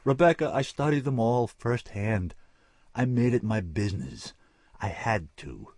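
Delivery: rising impassioned cry. Acted. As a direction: swell toward the last words. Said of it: "he cried".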